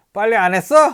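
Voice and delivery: loud, high yelling, scolding tone.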